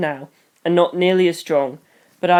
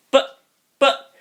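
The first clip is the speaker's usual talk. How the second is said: higher, halting plea; halting, higher-pitched objection; stammered protest; 7 semitones higher, 3 dB louder than usual. A narrator's reading. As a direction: object in a small, panicky burst. Stunned child protests to mother.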